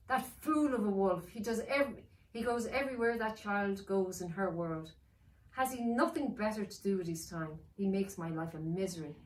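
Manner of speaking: dark lord complaining; Dark One complaining about wolf; grumbling villain. Acted.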